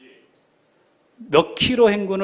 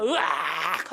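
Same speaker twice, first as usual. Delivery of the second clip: drawn-out acted "aargh" at everyday volume; weary imitation of a yell; mock battle yell; much slower than usual. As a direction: let out a half-hearted war cry. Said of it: "하고 소리 질렀을 거란 말이죠".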